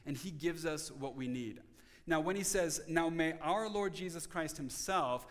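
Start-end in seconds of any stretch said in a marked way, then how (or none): 2.9-5.3 slow verse reading, weight on "himself"; stress on HIMSELF. Shown as a demonstration. Preacher quotes the apostle's prayer, stress on "himself". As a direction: draw out the verse, landing firmly on "himself". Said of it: "is on the word himself".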